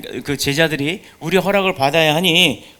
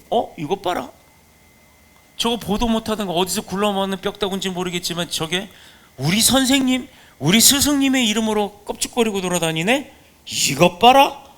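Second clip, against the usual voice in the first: higher, mocking disciple voice sneering at an outsider; scoffing disciples; 4 semitones higher than usual. Disciples sneering at the stranger using their teacher's name, mocking. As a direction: scoff like an indignant disciple who spots an intruder.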